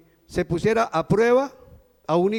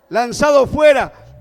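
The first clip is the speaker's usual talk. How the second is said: loud, slow declaration; great voice proclamation; 3 semitones higher, 5 dB louder, slower than usual. Retold or imitated. Preacher completing the heavenly voice's words, loud slow declaration. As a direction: proclaim the verdict loudly and deliberately. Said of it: "esa gran voz decía".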